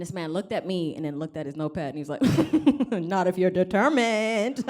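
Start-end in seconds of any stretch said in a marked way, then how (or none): 3.1-4.6 slow, dry clinical reply; a touch of a blunt therapist; deadpan psychiatrist. Retold or imitated. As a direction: say it flatly like a doctor reading notes.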